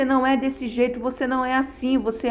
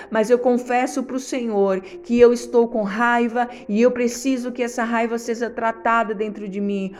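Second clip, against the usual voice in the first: confessing prayer with slowed, heavy pauses; earnest prayer. Shown as a demonstration. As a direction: pray it like confessing to God at the altar. Models an honest prayer.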